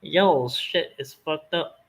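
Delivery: slow, drawled mock Georgia accent. Shown as a demonstration. Answering chat's request with a mock Georgia accent. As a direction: stretch it out in a lazy Georgia accent. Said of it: "do a Georgia accent".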